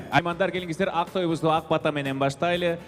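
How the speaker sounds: usual speaking voice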